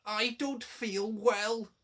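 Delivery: groaning. A narrator's reading. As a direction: pretend to be ill with a groan. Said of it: "he groaned".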